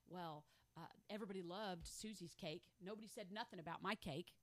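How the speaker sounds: low, soft mock grumble; sulky complaint. Churchgoer jealous over Susie's cake, low sulky grumble. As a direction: act out petty hurt under the voice.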